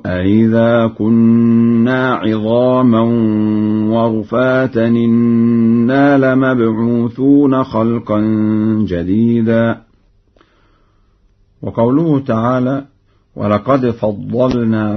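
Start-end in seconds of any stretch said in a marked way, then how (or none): 0.1-9.8 أئذا chanted slowly with the second hamza eased between hamza and alif; softened second hamza. Shown as a demonstration. Teacher recites for students, hamza in أئذا softened. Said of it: "تسهيل الهمزة الثانية هكذا".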